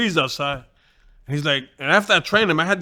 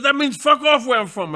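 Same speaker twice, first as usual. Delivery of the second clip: imitating Paul; 9 semitones higher than usual. Paul voiced explaining gesture.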